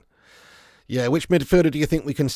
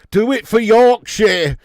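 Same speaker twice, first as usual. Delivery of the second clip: slow, loud and much higher; cheering on Yorkshire tea, slow and loud; rallying cry; 7 semitones higher, 10 dB louder, slower than usual. Pretend. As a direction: chant it like a proud county slogan.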